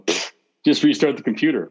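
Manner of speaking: scoff, then brush it off; mock dismissive jerk. Dad brushing off his upset kid, mock dismissive. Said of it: "like an asshole".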